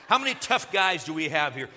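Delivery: loud, punchy call to the room. Real, not acted. Preacher calling out to the tough men, loud. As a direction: rouse the congregation with a shout.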